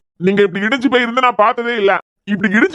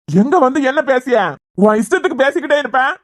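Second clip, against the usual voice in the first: indignant, raised-pitch scolding; angry rebuke; 4 semitones higher than usual. Acted. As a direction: scold him for daring to say it. Rebukes bearer of terrible news.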